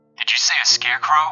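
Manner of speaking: ordinary delivery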